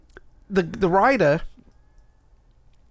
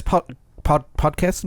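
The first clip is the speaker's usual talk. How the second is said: stumbling, unsure rise on Podcasts?; fumbled first try; slower than usual. Real, not acted. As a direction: trip over "Pod-, Pod-" and end "Podcasts?" with an unsure rising question. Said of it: "Let me say that again".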